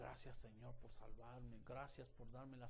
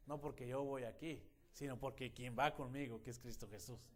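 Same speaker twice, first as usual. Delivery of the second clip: reassuring announcement; 4 dB louder than usual. Retold or imitated. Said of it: "me paro a decirle a los demás".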